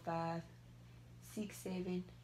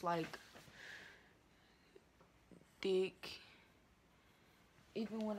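stiff face under tight mask; talking with face barely moving; wearing a dried face mask; 5 dB quieter than usual. Real, not acted. Seen 4: Glossy black mask covers face around lips throughout; R4 partly applied.

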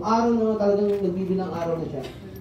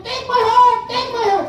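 shouted offer; 6 dB louder than usual. Retold or imitated. A subject volunteering his heart, high shout. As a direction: yell it out heroically. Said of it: "mga tao sabi niya".

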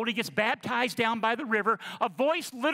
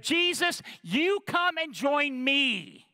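lightly voiced tempter; 5 semitones higher, slower than usual. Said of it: "Satan's right... that".

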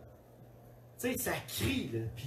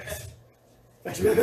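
high burst of laughter; laughing; 13 semitones higher, 6 dB louder, much slower than usual. Real, not acted. Pastor cracking up recalling checking his baby, laughing. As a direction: break up laughing mid-sentence.

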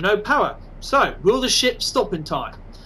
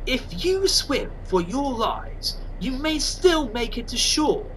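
Ocelot impression; 5 semitones higher, 4 dB quieter, slower than usual. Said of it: "I can't do an Ocelot impression".

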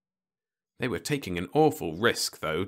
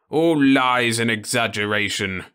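louder dismissive snort; scornful old man; 4 semitones higher, 7 dB louder than usual. Acted. Osmond waves off Ludovic's books, scornful. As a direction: wave it all away.

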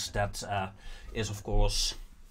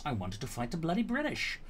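laughing gripe; 7 semitones higher, 5 dB quieter, faster than usual. Real, not acted. Laughs at his frustration.

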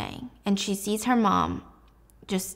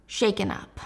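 ordinary delivery

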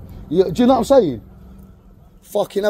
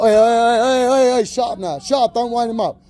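raised, rapid repeated heys; calling to order; 3 semitones higher, 4 dB louder than usual. Real, not acted. Man telling others to shut up mid-apology, sharp shout. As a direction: cut in loudly, pitched up. Cutting off someone provoking another.

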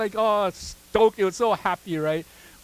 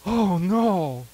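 mock panic; 4 dB louder than usual. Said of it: "suddenly you're".

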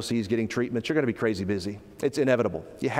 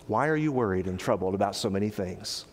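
gentle; 4 semitones lower, 4 dB quieter than usual. Acted. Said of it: "He would say".

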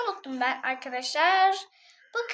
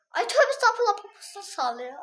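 laughing; 2 semitones higher than usual. Real, not acted. Laughing at dancing character.

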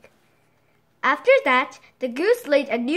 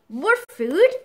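amazed question; 3 semitones higher, 4 dB louder than usual. Acted. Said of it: "asked the man in amazement".

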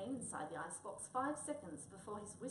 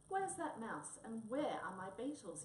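shouting; 3 semitones higher, 5 dB louder than usual. Acted. The headman stamps in demanding his mouse, loud shout. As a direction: bellow it out at the troublemakers. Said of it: "he shouted".

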